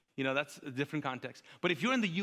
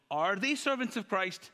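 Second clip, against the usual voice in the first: lightly voiced ranting apostle, pitched higher; Paul's rant; 5 semitones higher, slower than usual. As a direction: open the rant with a drawn-out, indignant question. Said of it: "Paul on a rant".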